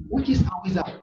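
soft, low, sheepish reply; meek answer. Retold or imitated. Preacher retelling own answer when challenged, meek and quiet.

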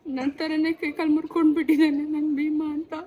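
crying for the broken bike. Real, not acted. Rider tells how her bike was broken like her, crying. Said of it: "ಆನಂದ ಬಾಷ್ಪ ಹುಡುಗಿಗೆ".

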